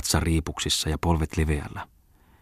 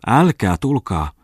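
put-on a little girl's slow, loud, higher yelp; startled yelp; 5 semitones higher, 6 dB louder than usual. A narrator's reading. Little girl yelps at the rich stranger, startled and loud. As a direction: yelp it out, shy and scared. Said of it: "älähti tyttö".

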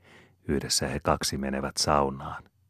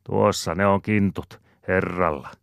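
higher, louder cry; exclaiming; 5 semitones higher, 5 dB louder than usual. A narrator's reading. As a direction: call it out in mild excitement. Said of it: "Maunon Pertta huudahtaa".

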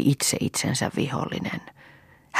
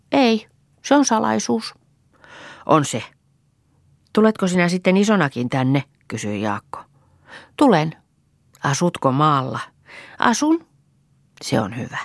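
put-on higher, light child voices; childlike voices, innocent and curious; 5 semitones higher than usual. A narrator's reading. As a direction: play two small children chatting sweetly. Children share a secret.

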